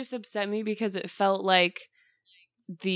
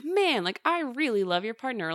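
higher-pitched pretend friend gushing; mock gushing praise; 5 semitones higher than usual. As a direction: lightly act out an admiring friend. Voicing friends praising someone's partner.

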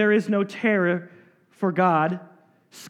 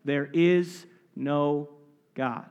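slow quiet fool's claim; 4 semitones lower, 3 dB quieter, slower than usual. Shown as a demonstration. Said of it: "the fool says in his heart, what?".

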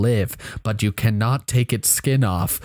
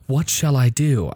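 put-on light worried child's question; 3 dB louder than usual. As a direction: ask it like an anxious kid. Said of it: "children ask".

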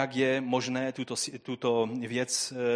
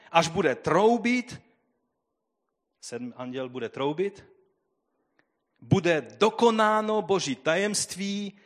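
slow, raised solemn proclamation; lifted solemn reading, higher and slower; emphatic scripture reading; 6 semitones higher, 4 dB louder than usual. Acted. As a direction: declare the angel's oath over the hall. Reads angel's oath emphatically.

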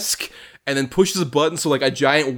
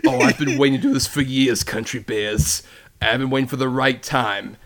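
menacing villain. Retold or imitated. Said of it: "the bit where he's just like".

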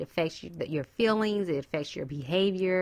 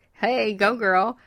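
cheering; 2 semitones higher, 5 dB louder, slower than usual. Real, not acted. Cheering women on.

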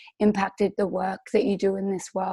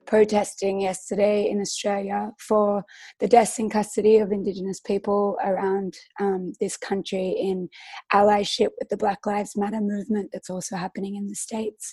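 hoarse after losing her voice; croaky voice. Real, not acted. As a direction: speak through a worn, croaky throat. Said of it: "So if I'm a little bit croaky".

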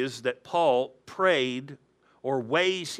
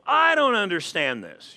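mildly exasperated, higher-pitched protest; exasperated driver; 4 semitones higher, 4 dB louder than usual. Acted. Pastor mimics driver ignoring oil light, mildly exasperated. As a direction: play a driver throwing up objections.

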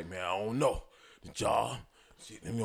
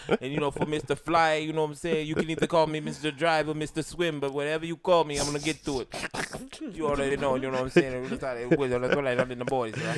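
higher-pitched imitation of Mister Fly's patter; impression of Mister Fly; 4 semitones higher than usual. Co-host imitating the absent Mister Fly's intro, higher. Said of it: "He sound just like that nigga".

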